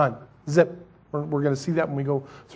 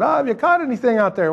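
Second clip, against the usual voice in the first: mild called out; 8 semitones higher than usual. Retold or imitated. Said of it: "the Lord yells out at the boat".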